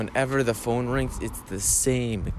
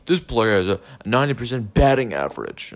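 dull, louder stat-reading broadcaster voice; mock sports announcer; 5 dB louder than usual. Mocking the broadcasters, a dull announcer's stat read. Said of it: "They're just stating the facts. It's boring".

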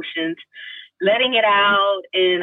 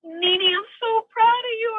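high, emotional mother's voice; proud mother; slower than usual. Retold or imitated. Mom to daughter on the phone, proud mother. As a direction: imitate a mom gushing with pride.

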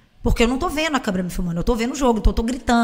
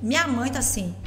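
usual speaking voice

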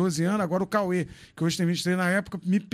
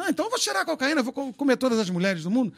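mock believer's question; 4 semitones higher, faster than usual. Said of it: "todo crente me fala".

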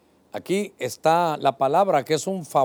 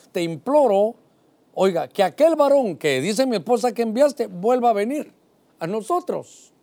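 loud, raised pleading to God; imploring prayer; 4 semitones higher, 3 dB louder than usual. Acted. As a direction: implore with rising urgency. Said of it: "imploró".

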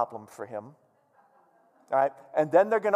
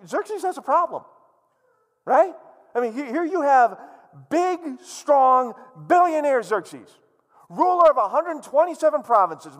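mock grandeur; 3 semitones higher, 6 dB louder than usual. Mocking Xerxes' grandeur, building.

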